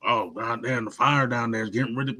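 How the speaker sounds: a light, mocking hint of a thick Southern accent; understated mockery of a thick Southern accent. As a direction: lightly parody a thick Southern accent to show what locals don't sound like. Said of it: "none of us talk like that".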